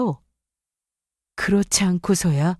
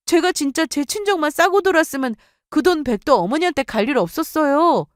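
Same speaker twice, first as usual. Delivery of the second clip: indignant retort; 6 semitones higher than usual. Acted. Daughter-in-law protests to her mother-in-law, high and indignant. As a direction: throw her words back at her.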